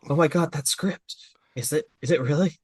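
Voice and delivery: lightly acted eager fan; a touch of mock excitement; imitated excitement. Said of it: "Kakashi is so excited about it".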